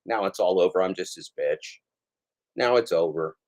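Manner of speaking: a mock defeated Pedro, lightly voiced; mock Pedro confession. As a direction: play him as a beaten, pathetic loser. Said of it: "And he'll just say".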